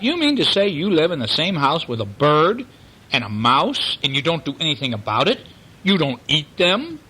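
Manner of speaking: a cat who can't believe it; incredulous Angora cat. Acted. Angora cat questions Snowbell.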